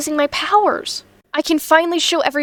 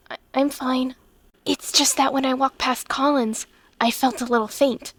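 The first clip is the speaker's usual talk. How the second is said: faint and quiet; 7 dB quieter than usual. Acted. Will feels faint near Collins.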